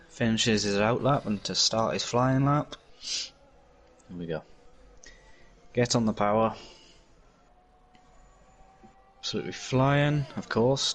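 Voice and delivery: motorsport commentator. Acted. Live on-board lap commentary.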